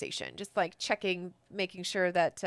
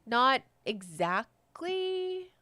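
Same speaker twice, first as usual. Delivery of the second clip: npc reply; 10 semitones higher, 4 dB louder, much slower than usual. Acted. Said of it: "she's like".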